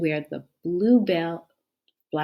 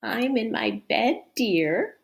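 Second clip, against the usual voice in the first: hoarse wolf voice; 5 semitones higher, 4 dB louder than usual. Acted. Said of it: "said a hoarse voice".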